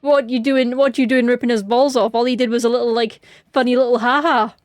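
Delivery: a hint of a patronising policeman; mocking UK police. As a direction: scoff like a bored British officer. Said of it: "U K police would be like".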